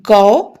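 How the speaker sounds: गौ pronounced gau clearly; syllable gau. Shown as a demonstration. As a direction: sound out गौ for pupils. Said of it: "ग पर औ की मात्रा". (गौ का उच्चारण करके दिखाएँ)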